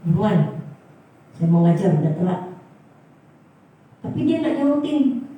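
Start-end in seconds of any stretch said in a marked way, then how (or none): 0.1-2.4 mildly stern retold hurry-up; a bit fierce. Teacher late for class hurrying the man asking, a bit fierce. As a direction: imitate yourself brusquely rushing someone along. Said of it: "agak galak karena temannya".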